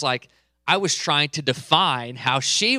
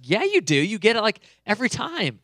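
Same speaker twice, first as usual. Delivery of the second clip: imitating his wife, higher and louder, insisting; mock frustrated wife; 7 semitones higher, 3 dB louder than usual. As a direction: replay her irritated insistence, pitched up. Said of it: "she starts to get, like, frustrated at me".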